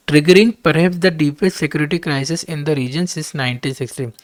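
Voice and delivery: reading the English text out very slowly and deliberately; slow dictation reading. Acted. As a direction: spell out each word for students to follow. Reads editorial aloud slowly. (धीमी गति से पाठ पढ़ना)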